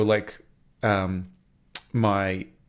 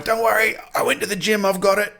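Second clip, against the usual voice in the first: put-on much higher, eager kid voice; confident little girl; 10 semitones higher, 4 dB louder than usual. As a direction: reassure like a proud tiny helper. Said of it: "and she's going".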